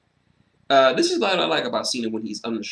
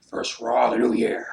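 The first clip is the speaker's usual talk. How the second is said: whispered menacing aside as the boss; whispered Vince tease; mock Vince whisper. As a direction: hiss it like a gloating threat. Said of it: "and he's like".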